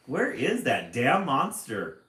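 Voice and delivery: loud, exasperated mock grumble; half-laughing fed-up outburst; a hammed-up frustrated demand. Reader voices frustrated Marilyn.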